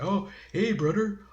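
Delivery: half-hearted imitation of a stilted Native accent; bad native accent. Mocking the actor's stilted Native accent, lightly imitated. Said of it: "really bad native accent".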